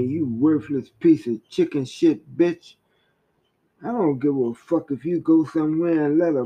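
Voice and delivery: bitter, swaggering abusive rant; understated fury with slowed last insults; voice of anger. Acted. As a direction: scorn her threat with curses. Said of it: "anger did that".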